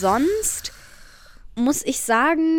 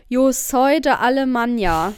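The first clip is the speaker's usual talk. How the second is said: broken Spanish; 5 dB louder than usual. Shown as a demonstration. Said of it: "Oder ich mach halt".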